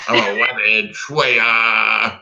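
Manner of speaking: lightly voiced Elmer Fudd, slowing on the quote. Encore of the Elmer Fudd bit, slow lisping cartoon voice. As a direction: drawl the lisped lines like a cartoon hunter. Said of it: "do you have an Elmer Fudd impression?".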